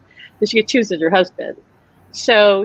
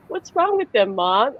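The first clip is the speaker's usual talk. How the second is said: put-on puzzled child; slower than usual. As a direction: ask "What's wrong with them?" slowly, like an innocent toddler.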